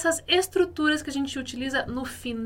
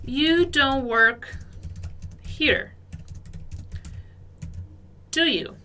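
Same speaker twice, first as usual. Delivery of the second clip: deliberate teacher demo; slow model reading; 2 semitones higher, slower than usual. Shown as a demonstration. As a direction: read it slowly for learners. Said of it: "nossa frase dois".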